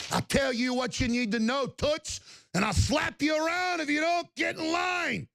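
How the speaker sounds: host mocking a bully's threat, hammed-up shout. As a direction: sneer then shout like a bully.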